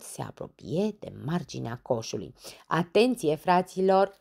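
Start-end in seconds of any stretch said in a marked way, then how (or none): 2.7-4.1 loud call to the group; shouted. Acted. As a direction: call everyone to attention. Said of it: "strigă el". (strigat către tovarăși)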